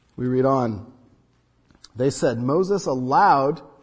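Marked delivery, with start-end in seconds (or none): 2.5-3.6 slow, stressed, drawn-out "allowed". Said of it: "do you notice the change of word".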